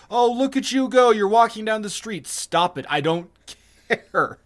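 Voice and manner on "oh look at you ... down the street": higher mock-admiring voice; mocking gushing. Party pooper mimicking a parade watcher, mocking gushing. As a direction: gush sarcastically at the marchers.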